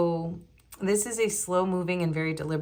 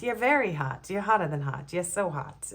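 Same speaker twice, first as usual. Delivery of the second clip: lightly put-on old Hollywood actress lilt; a hint of a 1940s screen siren; old-timey movie actress. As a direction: purr it like a vintage film starlet. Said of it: "talking like those, like, old-timey movie actresses".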